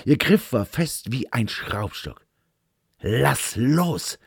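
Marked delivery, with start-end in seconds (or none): 3.0-4.2 a lightly hissed "let go"; mild hiss. Acted. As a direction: hiss it through the struggle, understated. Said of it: "zischte ich".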